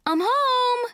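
high, loud, drawn-out call. A narrator's reading. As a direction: yell a homecoming through the house. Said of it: "and Mom yell".

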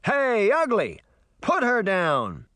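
high, loud call-out to the monster; challenging shout. A narrator's reading. Uncle challenging the monster, loud and high. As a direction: yell it at the brute. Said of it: "pointed a threatening finger at the brute".

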